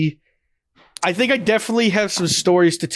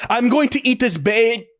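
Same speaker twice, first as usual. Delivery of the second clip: backwards speech; 4 semitones higher than usual. Shown as a demonstration. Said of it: "you have to kinda talk like".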